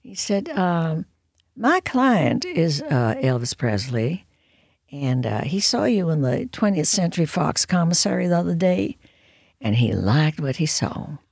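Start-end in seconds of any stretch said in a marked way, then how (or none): 1.5-11.2 a slow, lightly accented imitation of Colonel Parker; drawn-out, half-done Colonel Parker voice. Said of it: "I don't do the accent well".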